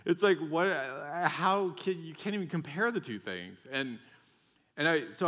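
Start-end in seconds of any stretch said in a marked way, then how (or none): 0.0-3.6 high, loud and incredulous; can't believe the comparison; excited disbelief. Real, not acted.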